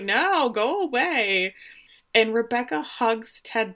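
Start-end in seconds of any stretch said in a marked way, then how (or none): 0.0-1.5 drawn-out, slow, a bit higher go away; mock brush-off. Rebecca waving off the rickshaw driver, slow mock brush-off. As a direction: stretch out the no and wave them off. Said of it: "And she's like".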